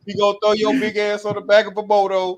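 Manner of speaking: hyped-up boast. Pretend. Hyping the Dominican security guard.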